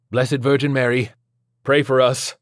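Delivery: insistent liturgical call; urgent litany. Acted. Exorcism litany called out.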